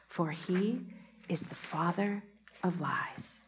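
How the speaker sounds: slow, intimate voice of God over music, swelling then hushed; prophetic reading. Acted. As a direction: speak as God to his child. Reads the word from God over music.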